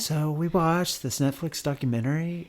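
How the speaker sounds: lightly imitating a soft-spoken athlete; gently earnest put-on voice; Tim Tebow. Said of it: "in a Tim Tebow voice".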